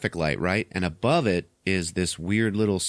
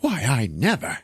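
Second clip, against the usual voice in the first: higher, affronted lady impression; mock shock; 4 semitones higher than usual. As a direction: play the scandalized lady. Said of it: "she's all shocked".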